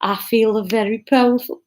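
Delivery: shaky try at Brummie; attempted Birmingham accent.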